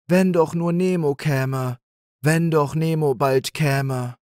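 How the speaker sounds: hoping voice. A narrator's reading. Animals wish, pleading.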